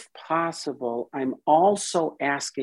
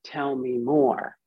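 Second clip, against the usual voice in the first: welcoming voice; 3 semitones higher than usual. Retold or imitated. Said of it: "So we say".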